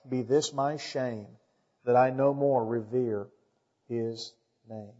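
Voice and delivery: soft, measured spoken verse; solemn hymn recitation. Acted. Preacher reciting a hymn about being ashamed, soft recitation. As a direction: recite the hymn softly, with pauses.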